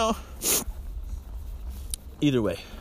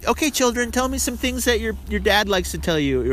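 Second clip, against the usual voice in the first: teacher voice; 7 semitones higher than usual. Retold or imitated. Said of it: "the teacher was like".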